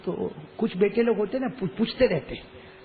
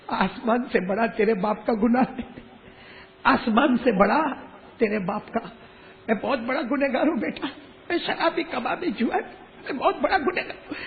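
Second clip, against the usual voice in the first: higher-pitched anguished cry; a father's confession wrung out of him; 5 semitones higher than usual. Acted. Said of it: "وہ باپ زور سے چلایا". (اونچی آواز میں چلاتے ہوئے)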